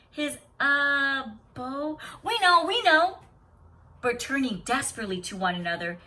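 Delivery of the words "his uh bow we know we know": high, hurried cover-up; flustered bluffing. A narrator's reading. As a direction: bluff nervously, voice rising.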